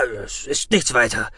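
calm, playing it down; soothing. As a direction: reassure them it's nothing. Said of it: "beschwichtigte Xantam".

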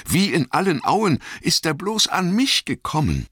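very high, distressed hobbit voice; stammering dismay. Acted. Frodo asking Gandalf how it reached him, high and distressed. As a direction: pitch it far up, as an alarmed little hobbit. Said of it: "stammelte er".

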